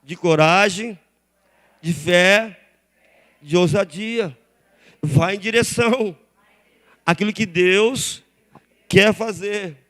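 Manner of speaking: preaching at full force. Acted. Pastor exhorting the church to step out, preached loud. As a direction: preach it out to the congregation.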